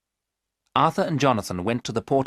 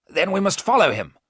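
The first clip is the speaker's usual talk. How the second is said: urgent raised cry; cried out; 10 semitones higher, 5 dB louder than usual. A narrator's reading. Arthur urging the others to chase Dracula, crying out. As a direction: call out eagerly, pushing to act. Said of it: "Arthur cried".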